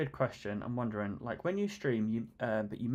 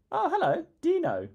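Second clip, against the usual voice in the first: excited greeting; 8 dB louder than usual. Real, not acted. Playful greeting to chatter.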